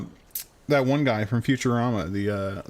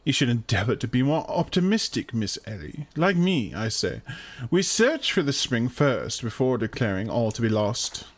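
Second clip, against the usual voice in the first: character voice. Acted. Player voices game character.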